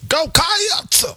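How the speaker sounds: "Cats" stretched into two syllables, "Cay-ats"; high drawn "Cats" with a rising end; extra syllable. Shown as a demonstration. The speaker copies the fan cheer, stretching "Cats" into two syllables. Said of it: "You're adding a syllable".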